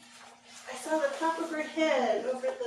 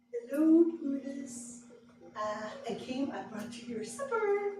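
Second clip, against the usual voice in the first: sweet call; 4 semitones higher than usual. Retold or imitated. Calling sweetly to unseen dog.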